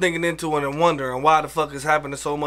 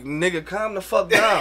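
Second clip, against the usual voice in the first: yelling at her; slower than usual. Retold or imitated. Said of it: "she'd be like".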